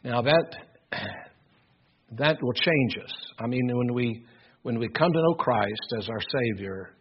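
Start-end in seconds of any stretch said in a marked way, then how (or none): none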